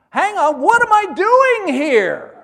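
very loud, high, slow panicked cry; hammed-up alarm at sinking; shouted mock terror of a man going under.

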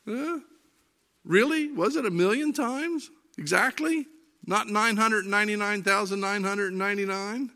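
mock disbelief. Mock questioning an exaggeration.

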